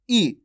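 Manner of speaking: brief "ई" on its own; short vowel demo. Shown as a demonstration. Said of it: "छोटी ई की मात्रा का उच्चारण". (छोटी "ई" का उच्चारण)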